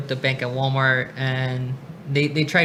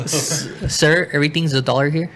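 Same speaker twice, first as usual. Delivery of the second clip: customer service voice. Pretend. Cashier role-play.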